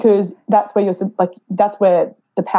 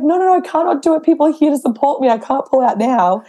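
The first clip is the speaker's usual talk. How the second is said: higher, insistent no no no; insistent refusal; 6 semitones higher than usual. Retold or imitated. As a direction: refuse to back out, fired up. Insisting she won't quit.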